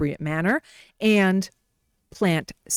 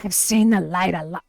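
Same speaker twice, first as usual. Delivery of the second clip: raspy voice. Retold or imitated. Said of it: "someone with a raspy voice".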